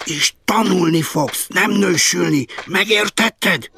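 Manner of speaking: high, forceful scolding yell; bellowing. A narrator's reading. Mother forbidding her child to marry, bellowing. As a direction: bellow the order, dragging out the last word. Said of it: "üvöltötte".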